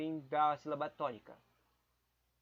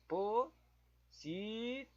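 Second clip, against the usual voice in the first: "Possível" drawn out very slowly, rising at the end; slow questioning sounding out; 5 semitones higher, much slower than usual. Shown as a demonstration. Testing quiz word "Possível", slow with a questioning rise. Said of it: "Deixa eu tentar ver o possível".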